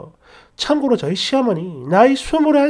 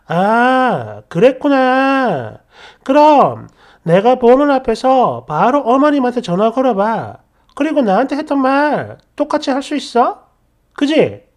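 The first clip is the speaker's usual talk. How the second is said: cool taunt; 2 semitones higher than usual. Retold or imitated. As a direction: egg him on calmly. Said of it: "하는 마음에". (약 올리듯 느긋하게)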